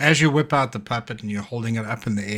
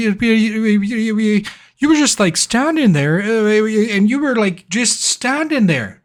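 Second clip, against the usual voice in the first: put-on high, eager rambling kid; a stammering little boy, pitched high; shy son stammering to the returned guest, high-pitched; excited child; 8 semitones higher, 8 dB louder than usual. GM holds child Pip voice.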